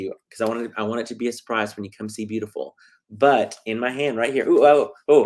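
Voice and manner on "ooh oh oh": startled oops. Real, not acted. Almost reveals the hidden calendar.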